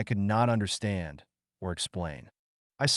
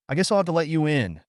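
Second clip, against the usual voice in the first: quick, grudging concession in a higher voice; 6 semitones higher, 4 dB louder, faster than usual. A narrator's reading. Cabin owner reluctantly lets visitor in, grudging. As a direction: give in grudgingly, rushing the words. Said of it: "he muttered grudgingly".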